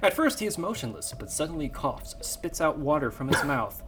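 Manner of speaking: dramatic screenplay narration; story narration. Acted. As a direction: set the scene like a movie trailer.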